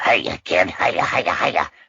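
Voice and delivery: slow gremlin voice, "hiya" drawn out slowly. Redoing the Flasher Gremlin's line from the movie: Flasher Gremlin voice. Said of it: "the one swinging that, that says".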